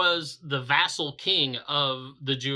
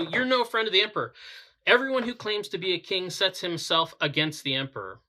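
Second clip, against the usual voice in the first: fast, higher, emphatic accusation; crying out; 3 semitones higher, faster than usual. Retold or imitated. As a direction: press the threat urgently. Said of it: "the Jews cried out".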